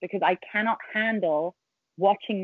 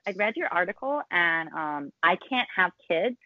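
fake American accent; 2 semitones lower than usual. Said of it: "You sounded Californian for a second".

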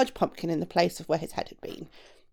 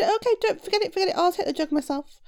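higher-pitched, mildly nervous giant; frightened giant; 9 semitones higher than usual. A narrator's reading. Giant excusing the shoemaker from fetching water, mildly frightened. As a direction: back down with a touch of fright. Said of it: "became even more frightened".

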